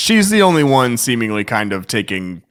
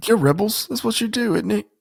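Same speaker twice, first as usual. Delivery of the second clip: higher, softer dramatic movie line; Jyn Erso quote; 11 semitones higher, 4 dB quieter than usual. Acted. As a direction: deliver it like a heroine's defiant challenge. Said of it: "Jyn Erso".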